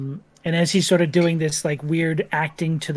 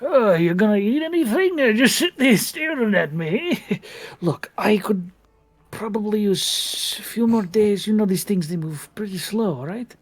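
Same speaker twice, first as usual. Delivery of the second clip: grumpy informant voice; 5 semitones higher than usual. Acted. GM voices Bimbus annoyed.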